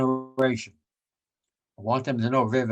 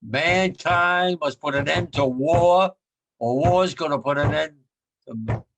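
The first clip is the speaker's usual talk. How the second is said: louder emphatic repeat; 3 semitones higher, 4 dB louder, slower than usual. Shown as a demonstration. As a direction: drive it home to the listeners. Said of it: "You hear me?".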